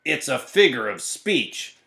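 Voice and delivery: slow, emphatic correction; understated, slow narrated shout; mild exasperated shout. A narrator's reading. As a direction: correct them with drawn-out exasperation. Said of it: "shouted Eugenia".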